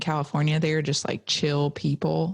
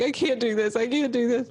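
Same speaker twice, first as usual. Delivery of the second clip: mock panicked plea, higher pitch; higher-pitched, lightly hammed-up distress; retold tearful panic; 6 semitones higher than usual. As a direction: imitate being overwhelmed and near tears. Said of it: "I'm in tears with my mom".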